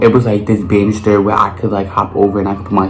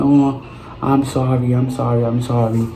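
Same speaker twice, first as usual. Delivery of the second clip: soft apology; 2 semitones higher, 5 dB quieter than usual. Retold or imitated. Apologising to the fallen child.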